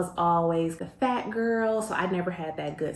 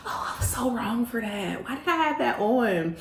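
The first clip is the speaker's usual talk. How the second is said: laughing cringe; 3 semitones higher than usual. Real, not acted. Laughing at own outfit.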